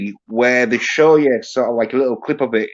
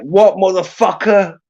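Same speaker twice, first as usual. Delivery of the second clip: mock confrontational outburst, pitched up; lightly acted challenge, higher than usual; imitated indignant retort; 6 semitones higher than usual. Co-host imagines a stereotyped film reply, mock indignant. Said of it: "a true black dude, he'd have been like".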